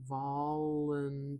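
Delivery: very slow, stretched "volunteer", syllable by syllable; contour demo. Shown as a demonstration. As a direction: trace the shape of "volunteer", long on TEER. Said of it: "like, a contour map of this sound".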